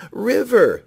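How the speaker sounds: high, loud call. A narrator's reading. Rooster calling out to the river, loud. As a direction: call across the water.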